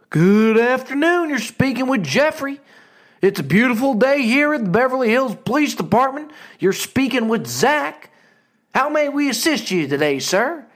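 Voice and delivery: a receptionist greeting with zero urgency; nonchalant operator. Retold or imitated. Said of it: "the most nonchalant answer".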